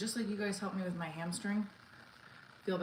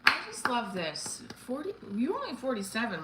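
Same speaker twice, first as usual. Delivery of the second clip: excited; 5 semitones higher, 3 dB louder than usual. Real, not acted. Reacting to a fan's super chat.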